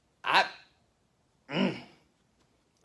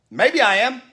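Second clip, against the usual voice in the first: higher, louder mock whiny lecture; smug passenger; 9 semitones higher, 8 dB louder than usual. Rude passenger lecturing the speaker, mock whiny voice. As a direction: whine it like a self-righteous scold.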